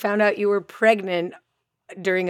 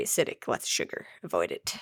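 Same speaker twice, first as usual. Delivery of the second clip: whispered warning; 10 semitones lower, 7 dB quieter, faster than usual. Real, not acted. Mock warning, dropping voice.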